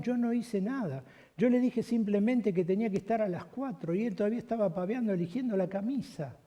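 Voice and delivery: a hint of a defiant pastor arguing; indignant protest. Pastor argues back with God.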